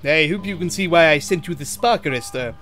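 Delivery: understated sternness; stern. Acted. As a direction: tell off firmly. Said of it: "he said sternly".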